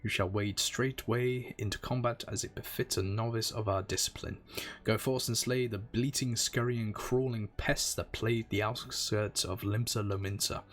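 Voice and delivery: grand, solemn quest-giver reading; lightly voiced quest giver. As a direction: intone it like a guild master. Reads quest giver dialogue.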